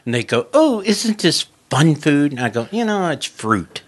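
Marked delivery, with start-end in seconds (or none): 0.5-2.3 high, loud, drawn-out yuppie gushing; mocking impression of yuppie friends. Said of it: "they'd be talking all yuppie". 2.7-3.8 high-pitched country-guy retort; half-laughing country comeback. Retold or imitated. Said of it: "like, a country kind of guy".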